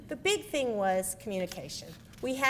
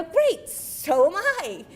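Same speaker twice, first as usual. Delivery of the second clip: puzzled reply; 7 semitones higher, 8 dB louder, much slower than usual. Retold or imitated. Bewildered reply to husband's call.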